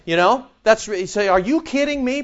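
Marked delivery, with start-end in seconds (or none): 1.3-2.2 incredulous Paul. Acted. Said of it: "Paul goes".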